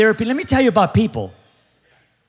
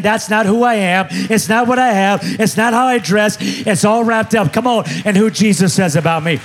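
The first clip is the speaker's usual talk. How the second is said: preaching. Acted. Pastor preaching identity to his church, rising to a half-sung peak. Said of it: "God, I'm preaching good".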